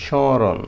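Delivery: স্মরণ, শ lightly through the nose; স্মরণ said "shoron", nasalised; nasal smaran. Shown as a demonstration. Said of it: "হালকা নাকে বাজবে". (স্মরণ নাকে বাজিয়ে উচ্চারণ)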